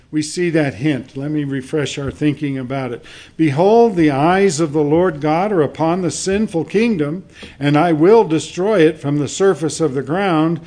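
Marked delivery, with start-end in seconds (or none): 3.4-10.6 loud, forceful prophetic proclamation; emphatic scripture reading. Acted. Preacher reading God's judgment to the congregation, loud and emphatic. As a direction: read the verse out with ringing weight.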